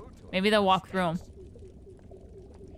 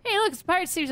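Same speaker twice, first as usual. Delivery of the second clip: higher goofy pirate voice; Pirate Steve voice; 10 semitones higher than usual. Retold or imitated. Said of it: "the freaking Pirate Steve".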